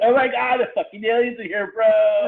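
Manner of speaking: high, loud freaked-out bro voice; mock panicked white guy. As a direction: play a panicking bro at full volume. Mocking white people seeing aliens.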